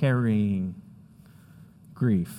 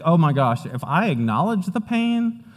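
higher, worried mock inner voice; anxious inner voice; 3 semitones higher than usual. Pastor voicing the congregation's fear of crying, mildly anxious. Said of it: "'Cause we think".

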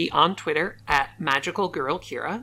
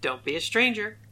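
high, lifted sign-off voice; put-on high voice; 7 semitones higher than usual. Co-host countering the ominous take of the sign-off, high-voiced. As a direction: pitch it up, far from ominous.

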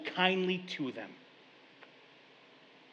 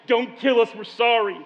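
pleading, louder and higher; begging; 5 semitones higher, 8 dB louder than usual. Retold or imitated. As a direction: brothers begging Joseph for their lives. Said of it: "They fall at his feet crying".

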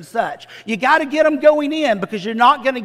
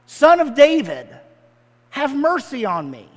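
calling out; 3 semitones higher than usual. Acted. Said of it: "he starts yelling out".

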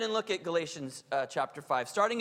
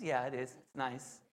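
put-on lower, softer grudging teen reply; grudging daughter; 8 semitones lower, 8 dB quieter than usual. Daughter admitting clean room is nice, grudging. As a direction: mumble it like a reluctant teen. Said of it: "And she goes".

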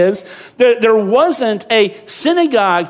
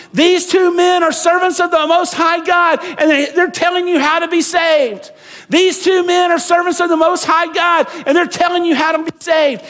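high, loud possessed shouting; yelling at the top of her lungs; 9 semitones higher, 3 dB louder than usual. Retold or imitated. Slave girl yelling after Paul and Silas, loud shout. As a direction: bellow it after them down the street. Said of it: "she would yell at the top of her lungs".

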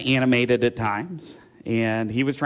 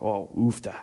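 Minnesota exclamation; 3 semitones lower, 4 dB quieter than usual. Retold or imitated. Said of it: "it's like an exclamation".

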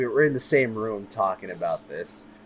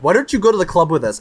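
mock friends' invitation; 6 semitones higher, 9 dB louder, much faster than usual. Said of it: "they're just like".

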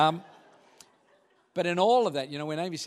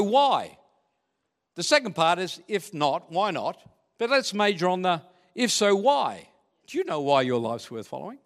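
normal talking voice

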